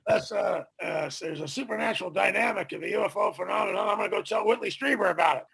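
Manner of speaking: playful take on the scientist; Roger Lear impression. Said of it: "That's my best Roger Lear impersonation".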